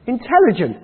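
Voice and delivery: "Intelligent?" said in flat disbelief, falling; incredulous echo. Acted. Owner doubting the butcher's praise of the dog, scoffing.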